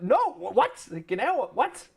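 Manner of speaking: loud, stammered mock disbelief; hammed-up confusion, broken into bursts; retold bewilderment. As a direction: act out baffled protest, leaping high on the last word. Retold confusion at unfamiliar word.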